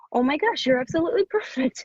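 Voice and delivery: high, breathy whispered gush. Retold or imitated. Author recalling meeting her editor, thrilled whisper. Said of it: "it was like".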